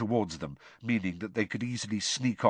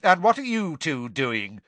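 loud, hostile demand; cold Snape challenge; 6 semitones higher, 5 dB louder than usual. Acted. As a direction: catch the boys out. Snape voiced.

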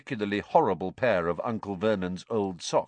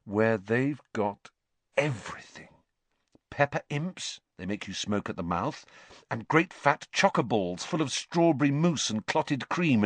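dreamy; 6 semitones higher than usual. A narrator's reading. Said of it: "a dreamy look coming over his face".

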